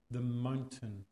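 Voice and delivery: the mountain, said slow and falling; dwelling on a word. Shown as a demonstration. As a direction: let the mountain hang in the air. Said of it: "hold on that word".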